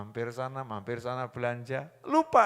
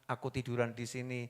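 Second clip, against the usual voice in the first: put-on gentle child's reply; 3 semitones lower, 7 dB quieter than usual. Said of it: "anak tadi noleh sambil mengatakan".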